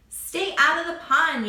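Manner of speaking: shouted high and loud; yelling. Acted. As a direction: yell it out. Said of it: "yelled Milton".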